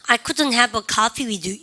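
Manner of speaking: I couldn't have a coffee with you spoken slowly; slow drill. Shown as a demonstration. Teacher reading aloud with the class, slow. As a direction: say each word slowly and clearly. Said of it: "시작".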